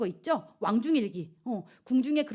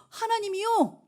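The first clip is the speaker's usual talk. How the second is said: gasp, then higher and slower; awed gasp; 10 semitones higher, slower than usual. Real, not acted. Preacher marvelling to the youth, a gasp of wonder.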